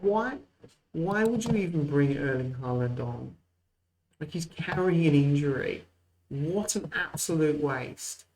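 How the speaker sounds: can't believe they'd do something so pointless; exasperated disbelief. Real, not acted. Gamer to viewers about the opponent subbing Haaland on, exasperated.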